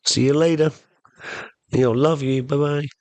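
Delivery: a hint of a doting wife; sweet wife. Wife seeing the plumber husband off, lightly sweet. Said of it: "So she goes".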